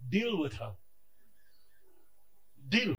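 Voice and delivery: low, soft grumbling to God; low soft tattling prayer; quiet complaint. Retold or imitated. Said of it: "I complain to him".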